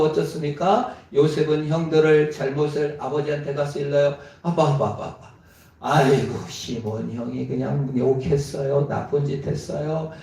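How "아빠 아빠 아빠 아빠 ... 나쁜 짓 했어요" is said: put-on tattling child. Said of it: "이러고 남 지적하면서 ... 고자질하면서".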